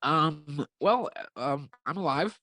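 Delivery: talking while chewing gum; words around a wad of gum. Real, not acted. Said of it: "I'm sorry I'm chewing gum".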